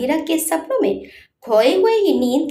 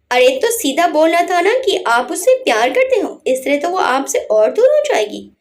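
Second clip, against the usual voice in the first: laughing; 4 semitones higher, 3 dB louder than usual. Acted. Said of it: "हंसते हंसते बोली".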